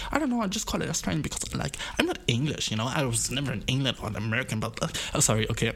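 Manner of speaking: lightly put-on Australian-tinged English, apologetic; mild parody of a returnee with an Australian accent; mock Australian-English returnee. German back from Australia, mildly parodied in an Australian accent. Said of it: "so fucking den Akzent reden".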